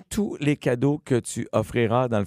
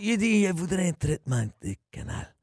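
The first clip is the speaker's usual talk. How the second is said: Enrique; 6 semitones higher than usual. Acted. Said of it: "en appelant avec la voix d'Enrique".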